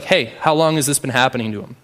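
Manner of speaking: casual, unfazed and brisk question; clinical, calm. Retold or imitated. Jesus unimpressed by the demons' show, calmly asking. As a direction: ask it like an unhurried doctor, straight out. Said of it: "clinical and calm, like a doctor".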